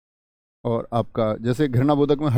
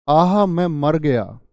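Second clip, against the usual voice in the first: mock pain; 4 dB louder, much slower than usual. Shown as a demonstration. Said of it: "ऐसे।".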